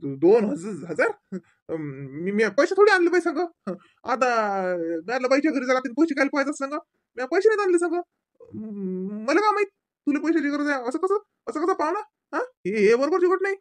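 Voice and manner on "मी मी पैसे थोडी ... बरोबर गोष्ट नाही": flustered excuses. Acted. Father dodges lending, agitated.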